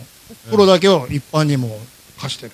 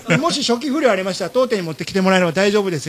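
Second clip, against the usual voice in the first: higher customer-service patter; shop clerk; 3 semitones higher, faster than usual. Retold or imitated. Clerk explains warranty returns to a customer, polite patter. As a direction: recite the policy lightly as a clerk.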